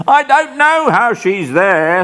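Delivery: high, frightened voice; shivering with horror. Acted. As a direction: quake through the words in dread. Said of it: "says Arthur".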